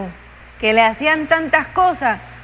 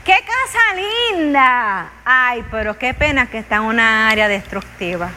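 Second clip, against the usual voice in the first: backhanded compliment. Retold or imitated. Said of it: "me salió ahí dice".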